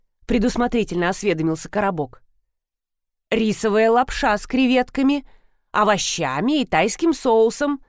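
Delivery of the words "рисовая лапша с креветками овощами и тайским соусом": narrated brisk report of a dish; reporting the menu. A narrator's reading. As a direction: rattle it off like a mild report. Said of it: "отрапортовала хозяйка". (будто докладывает меню)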